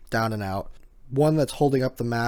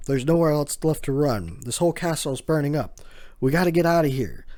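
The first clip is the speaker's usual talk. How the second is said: higher, louder, hurried panic; panicked; 3 semitones higher, 3 dB louder than usual. Retold or imitated. Usopp in the burning castle, panicked and hurried. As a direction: urge everyone out in a rush.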